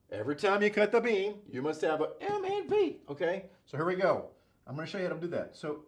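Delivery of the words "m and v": high cartoon mouse voice; Mickey Mouse voice. Shown as a demonstration. Teacher repeating the mnemonic in a high cartoon mouse voice. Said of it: "You have to say it in Mickey Mouse voice".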